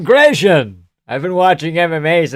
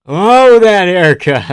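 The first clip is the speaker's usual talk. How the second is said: mock horror; 6 semitones higher, 9 dB louder, slower than usual. Real, not acted. Reacting to fighter's haircut.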